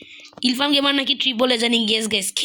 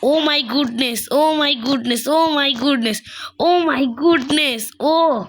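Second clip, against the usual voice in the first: shocked; 3 semitones higher, much slower than usual. Real, not acted. Repeated shocked exclamation, building.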